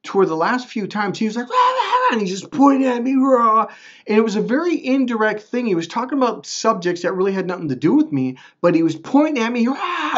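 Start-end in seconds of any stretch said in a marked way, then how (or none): 1.5-2.1 high-pitched mimicked ranting roar; mock yelling rant. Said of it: "he was yelling so loud". 3.1-3.7 loud, high wordless ranting roar; mock yell. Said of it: "he was yelling so loud". 9.7-10.2 imitated wordless shout; mock yell. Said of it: "he was yelling so loud".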